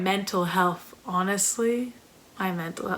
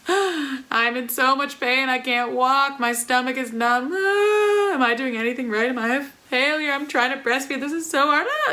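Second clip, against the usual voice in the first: mock distress; 3 semitones higher than usual. New mom retelling feeling like a failure, light mock distress. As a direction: voice the panic lightly, not fully. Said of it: "you're just freaking out".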